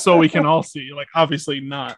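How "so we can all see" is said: dry ironic jab; sarcastic. Retold or imitated. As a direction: stress the irony on so. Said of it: "he says it sarcastically".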